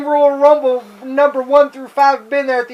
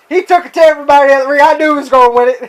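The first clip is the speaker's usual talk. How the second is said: fast Heenan; 3 semitones higher, 3 dB louder, much faster than usual. Retold or imitated. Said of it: "Bobby Heenan says".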